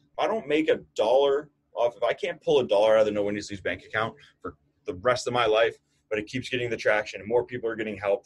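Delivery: real fired-up conviction, punching key phrases; worked-up, emphatic pledge. Real, not acted. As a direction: speak with passion, getting carried away. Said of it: "I'm fired up".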